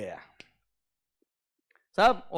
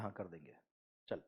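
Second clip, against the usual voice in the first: low, much softer, offhand brush-off; dismissive mumble; 12 semitones lower, 22 dB quieter, faster than usual. Retold or imitated. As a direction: wave him away under your breath. Uncle brushing off the payment request. (धीमी, बेपरवाह टालमटोल)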